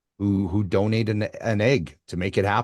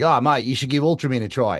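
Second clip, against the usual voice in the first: put-on Australian accent; 3 semitones higher than usual. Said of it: "who's an Australian".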